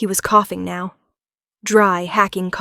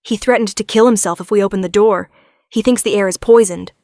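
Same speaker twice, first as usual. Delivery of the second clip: anxious; 6 dB louder, faster than usual. Acted. Guard explains under pressure.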